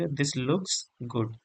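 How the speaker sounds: drawn out repeat of "this looks good"; slow model sentence. Shown as a demonstration. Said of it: "कैसे बोलेंगे?". (धीमा, नरम दोहराव)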